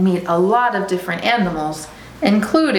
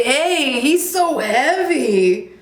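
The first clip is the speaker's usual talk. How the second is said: straining animal; 7 semitones higher, slower than usual. Acted. Voicing an animal carrying the cub.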